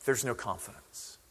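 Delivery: ordinary delivery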